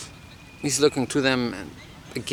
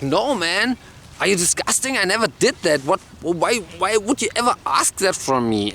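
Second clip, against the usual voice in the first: higher-pitched, mildly outraged protest; acted disgusted disbelief; indignant refusal; 5 semitones higher than usual. Passenger outraged by lewd demand.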